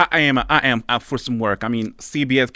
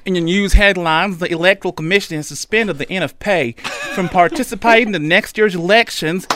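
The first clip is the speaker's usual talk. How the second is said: put-on Deep South news accent; 4 semitones higher than usual. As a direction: read the headline like a Deep South anchor. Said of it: "I can't do the accent, but Tabo can".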